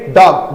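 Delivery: डॉग jerked out short and quick; quick clipped dog. Shown as a demonstration. Teacher showing the quick डॉग sound. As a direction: snap out डॉग in one quick jolt. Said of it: "झटके से बोलेंगे डॉग".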